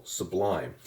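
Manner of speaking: "sublime" with the weight on -lime; stress on last syllable. Shown as a demonstration. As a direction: say "sublime", sub light and lime strong. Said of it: "you'll hear how the lime syllable is, uh, the stressed syllable".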